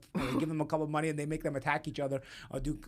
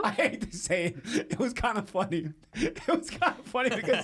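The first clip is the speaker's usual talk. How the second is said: guilty giggle through the words; laughing confession; 4 semitones higher than usual. Real, not acted. Guest admits to friends the video amused him, laughing. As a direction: laugh while admitting it was funny.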